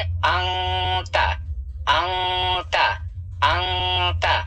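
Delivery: अंता with the नून hidden in the nose; nasal ikhfa. Shown as a demonstration. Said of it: "नाक में छुपा कर पढ़ना है".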